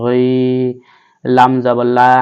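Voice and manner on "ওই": "ওই" begun at the top of the throat; voiced throaty gh opening "ওই"; throat ghayn. Shown as a demonstration. Teacher shows the ghayn, throaty start to "ওই". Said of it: "হলকের শেষ ভাগ থেকে এই কয়েনটা".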